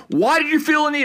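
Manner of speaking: high-pitched mock yell at another driver; retold yell. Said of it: "I'm, like, yelling at the person".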